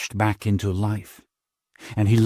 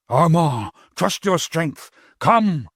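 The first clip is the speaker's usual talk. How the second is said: desperate call; 8 semitones higher, slower than usual. Acted. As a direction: urge him on, shouting. Master calls back for him.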